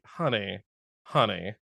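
low, drawn-down pitying address; mock pitying. Host addressing a naive film character, mock pitying. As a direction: let it sink, as if to someone hopeless.

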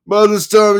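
high, loud attorney voice; mistakenly yelled narration; yelling. Acted. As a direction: narration read as a shout by mistake. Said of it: "that was not dialogue".

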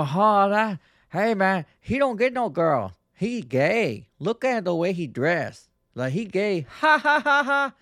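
mock a loud Filipino guy in his thick accent, cackling at the end; Filipino accent imitation. Retelling a Filipino guy's rude remark, in an imitated thick Filipino accent. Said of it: "he's got this thick Asian accent".

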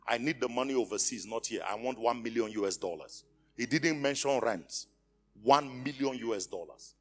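ordinary delivery

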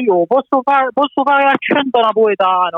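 light Neapolitan accent. Shown as a demonstration. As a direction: say it the Naples way. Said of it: "Ha cambiato voce?".

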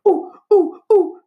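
high excited ooh ooh ooh; eager kid. A narrator's reading. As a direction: bounce on it like a hand-waving kid. Kids eager to be picked.

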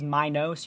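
"Minos" said as MY-nohs with a full O; stank on the O. Shown as a demonstration. Host showing the supposedly correct reading, emphatic O in MY-nohs. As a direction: lean on the long O ending of "Minos". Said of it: "put some stank on that O".

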